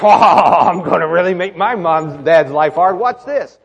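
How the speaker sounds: put-on playful scheming kid voice; mischievous child. Child plotting to trouble mom and dad, mischievous. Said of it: "I'm not saying they're like".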